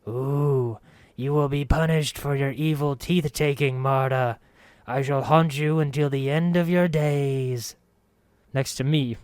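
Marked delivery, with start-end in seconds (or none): 0.1-7.8 high, silly ghostly wail; haunt her in a squeak; squeaky ghost voice. Acted. Narrator throwing his voice to scare Marta, high squeaky ghost. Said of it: "Again I squeaked".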